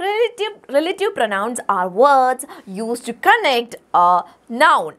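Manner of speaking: very slow textbook read; slow reading aloud. Shown as a demonstration. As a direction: read the definition to the class. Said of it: "നമുക്കൊന്ന് വായിച്ചു നോക്കാം".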